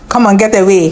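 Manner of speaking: "Come on, get away" thrown out like a swear word; swear-word dismissal. Shown as a demonstration. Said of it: "there's a way you say it".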